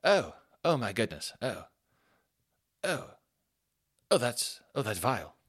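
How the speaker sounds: lightly mimicked appalled dad, rising in pitch; disgusted dad. Dad on the train reacting to the smell, mock disgust. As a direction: build from revolted little "oh"s to high outrage. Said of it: "the dad of the family".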